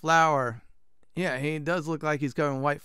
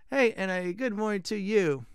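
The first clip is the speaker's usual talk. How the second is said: lightly hammed-up Italian blacksmith, higher; bad Italian accent; 4 semitones higher than usual. Blacksmith greeting the player, bad Italian accent. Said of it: "gonna be very bad Italian accent".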